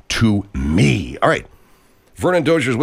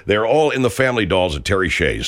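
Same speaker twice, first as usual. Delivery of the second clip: local store ad spot with music; salesy ad announcer patter; radio ad read. Acted.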